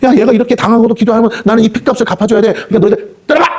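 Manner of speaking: high, commanding declaration; God ordering the dark forces to leave. Retold or imitated. God rebuking the powers over the soul, high and commanding. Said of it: "하고 하나님이 역사하시면요".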